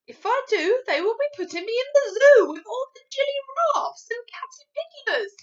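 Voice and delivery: loud, high, worked-up giant; BFG. Acted. BFG fearing the zoo, loud agitated giant voice. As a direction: protest with mounting alarm.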